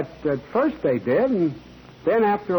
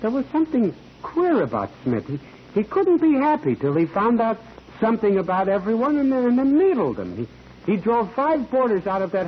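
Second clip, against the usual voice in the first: agitated; 6 semitones higher than usual. Acted. Witness grows agitated about Smith.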